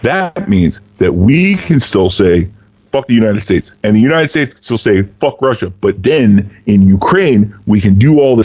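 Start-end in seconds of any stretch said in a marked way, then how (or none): 0.0-5.7 a hint of a sly Russian official sweet-talking; lightly voiced Russian schemer. Russia sweet-talking Ukraine about secret business, lightly voiced friendly scheming. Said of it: "the thing to do if you're Russia is go".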